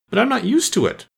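high-pitched plaintive plea; piteous pleading. A narrator's reading. Poor Alice pleads with the caterpillar, piteous. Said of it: "pleaded poor Alice in a piteous tone".

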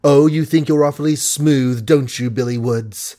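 honeyed voice hiding contempt; sweet as honey yet cutting; suave sweetness. Acted. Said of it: "Suave, gentle, sweet as honey was the speech".

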